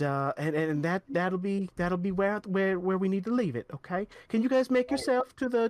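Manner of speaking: a hint of a chatty official; lightly voiced quest giver. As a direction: talkative noblewoman, lightly voiced.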